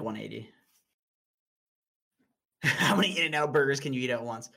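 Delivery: ordinary delivery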